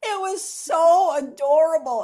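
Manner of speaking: loud, slow, laughing through the words; delighted laughing gush. Real, not acted. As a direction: gush while still laughing. Laughing after possum imitation.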